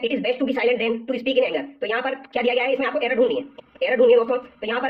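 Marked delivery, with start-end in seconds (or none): 0.0-1.8 very slow, every word of "It is best to be silent than to speak in anger" laid out separately; slow deliberate reading. Shown as a demonstration. Teacher slowly rereads the exam sentence for students, very slow. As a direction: read it out slowly so the class can follow each word. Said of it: "तो दोस्तों यहाँ पर दिया गया है".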